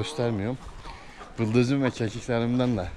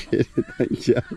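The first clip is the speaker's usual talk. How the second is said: much higher teasing coo; squeaky pet talk; 3 dB louder than usual. Real, not acted. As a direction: squeal at the goat to come behind. Doting at goat, squeaky.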